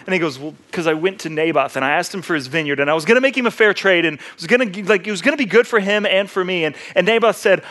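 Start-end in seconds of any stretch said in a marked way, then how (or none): 0.4-6.6 put-on complaining like a pouty kid; lightly whiny, run-on excuse to the wife; mock whining. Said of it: "he whines and he complains".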